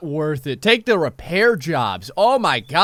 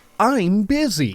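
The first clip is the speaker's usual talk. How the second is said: play-acted offhand, unbothered, very nonchalant villager voice; 3 semitones higher than usual. Explaining that villagers working in the game won't give quests, imitating a nonchalant voice. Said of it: "in that very nonchalant voice".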